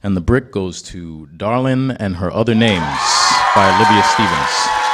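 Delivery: loud award announcement; announcer shout. Real, not acted. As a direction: call out the winner proudly.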